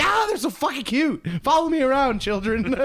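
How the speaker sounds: high, cooing voice for cute babies; cooing baby talk. Retold or imitated. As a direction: coo at tiny creatures.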